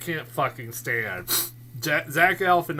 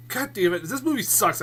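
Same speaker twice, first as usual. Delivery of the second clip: mock disappointed rant; 8 semitones higher, 3 dB louder than usual. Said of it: "It's one of those, like".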